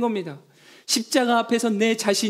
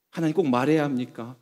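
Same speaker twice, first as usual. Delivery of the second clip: lower, polite, mock-dignified ask; prim dignified tone; 6 semitones lower than usual. Believer to God, mock-dignified reserve. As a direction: sound proper and restrained. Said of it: "되게 점잖아 보이는 말투인데".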